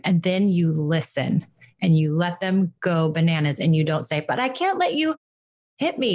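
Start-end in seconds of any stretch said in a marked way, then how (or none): 4.3-6.1 calm firm limit. Shown as a demonstration. Parent sets limit to child.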